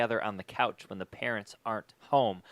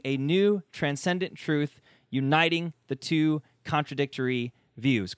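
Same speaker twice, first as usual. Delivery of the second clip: reading the back cover; 3 semitones higher than usual. Shown as a demonstration. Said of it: "let me just read the back".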